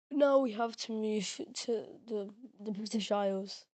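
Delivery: words with a cracking voice. Real, not acted. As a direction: voice cracking and breaking. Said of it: "Sorry about the voice cracks".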